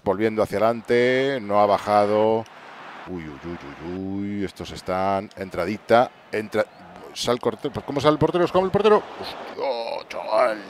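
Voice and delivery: usual speaking voice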